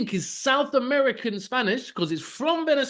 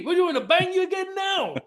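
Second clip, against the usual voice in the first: ordinary talk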